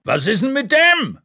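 man behind the counter shouting at the waitress; shouting across the room. Acted. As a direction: yell across the pub. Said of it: "schreit ein Mann hinter der Theke".

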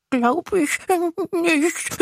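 high, sulky little monster voice; a little monster doubting through its sniffles; whiny little monster. Acted. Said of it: "und heult wieder weiter". (weinerliches kleines Ungeheuer)

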